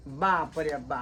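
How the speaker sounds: very low, quiet mutter; muttered dismay. Acted. Host reacts to his demanding guest, muttering low in dismay. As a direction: mutter it under your breath in dismay.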